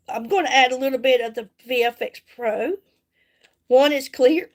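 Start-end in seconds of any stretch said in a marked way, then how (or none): 3.7-4.5 talking through hiccups; hiccuping. Real, not acted. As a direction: hiccup mid-sentence. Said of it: "I'm hiccuping".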